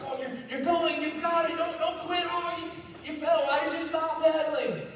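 put-on a parent urging a kid on a bike, a touch of pep; encouraging parent. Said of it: "I look at it as a parent".

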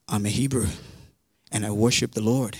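low, understated acted confession; imitating a sheepish, subdued reply; deadpan admission. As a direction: answer reluctantly after a long pause. Jonah answers the alarmed sailors.

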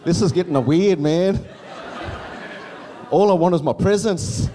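put-on high, loud kid complaint; whiny kid. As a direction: whine like a four-year-old wanting presents. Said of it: "I'm like".

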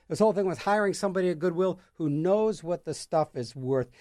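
ordinary talk, nothing marked

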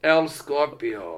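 slow lisped El Scorpio; castilian spanish accent. Shown as a demonstration. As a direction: say El Scorpio slowly with a Castilian lisp. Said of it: "Should we do a Castilian accent for the El Scorpio".

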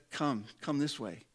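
soft, coaxing invitation; hushed, patient summons; gentle beckoning. Retold or imitated. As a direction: quietly call someone closer, as Jesus. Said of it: "as he has said".

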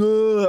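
drawn-out mock jeer; mock heckler noise. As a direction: imitate a wordless shout from the back. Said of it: "der står ude bag og råber noget".

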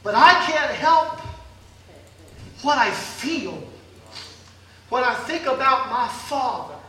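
pushing through real emotion; emotional. Real, not acted. Preacher overcome thinking of his father, emotional. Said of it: "I'm sorry I'm getting so emotional".

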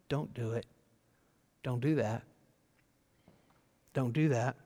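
low, hushed, spaced-out warning; whispered warning. Acted. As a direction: warn softly, as God whispering. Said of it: "sometimes God whispers things like this".

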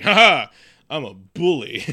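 loud mock laugh, then a bully's boast. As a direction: imitate a gloating cartoonish bully. Acting out the movie bully's gloating.

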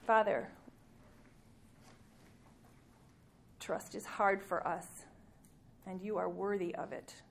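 gentle, unhurried prayer voice; closing prayer. Acted.

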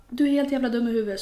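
quick, mildly heated mock outburst; imitated frustrated snap; retold frustration. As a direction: fire off the insult, acting fed up. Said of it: "blir jag bara frustrerad".

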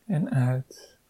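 breathy whisper on the exhale. Acted. Breathing cue in meditation.

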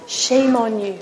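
accusing whisper. Acted. Enemy trying to knock a believer down, softly whispered accusation. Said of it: "That's what he whispers".

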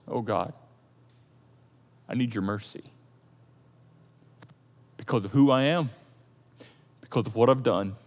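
low, soft, humble prayer; honest humility. Acted. Sinner begging God for mercy, humble and quiet. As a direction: plead softly, pausing between phrases. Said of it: "In humility, honest humility".

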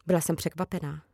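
ordinary delivery, nothing marked

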